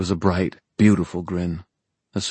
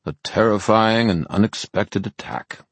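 deadpan mock alarm, higher pitched; bored; 4 semitones higher than usual. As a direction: feign alarm while utterly unimpressed. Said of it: "he said in a bored voice".

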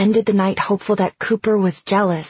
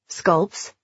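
puzzled question; 2 semitones lower, 3 dB quieter than usual. Acted. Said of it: "Mom asked".

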